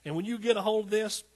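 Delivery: rising, emphatic pulpit exhortation; heartfelt sermon climax, key phrases punched; impassioned preaching. Real, not acted. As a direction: urge the congregation on with building fervour. Preaches encouragement to the congregation.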